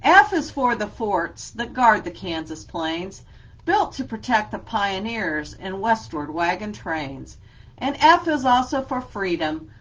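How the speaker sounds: lively read-aloud with a steady rhyme beat; reading to children. Acted. Teacher reads an alphabet book to her class, lively and rhythmic.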